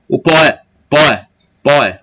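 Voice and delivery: "poé" said in a single burst, o gliding into é; "O poé, poé, poé" with the two vowels fused; one merged syllable. Shown as a demonstration. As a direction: repeat "poé" as one syllable each time. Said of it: "saísse de uma vez só".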